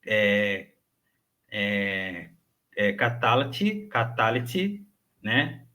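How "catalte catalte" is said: catalte with a brief vowel after L, tune rising; slow, lightly rising catalte, ka-TA-la-ti; upper-form catalte. Shown as a demonstration. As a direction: open the L in catalte into a short vowel. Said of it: "Aqui em cima pronunciam".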